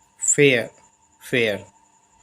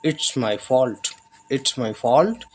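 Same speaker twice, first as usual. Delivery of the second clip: each English word spaced out slowly; slow dictation; much slower than usual. Shown as a demonstration. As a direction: read it slowly for the learners. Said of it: "यह मेरी गलती है".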